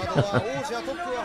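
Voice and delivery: soft, breathy chuckle. Real, not acted. Commentator amused by his own candlepower joke, soft chuckle. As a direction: laugh quietly to yourself.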